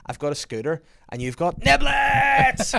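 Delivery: put-on high, loud child voice, slowing on the punchline; triumphant child. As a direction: blurt it like a proud little girl. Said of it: "And she goes".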